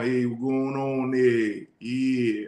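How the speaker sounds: slow, drawn-out country twang; country accent. Retold or imitated. Man mimicking his friend's acquired Tennessee voice, slow country accent. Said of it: "he had had this country accent".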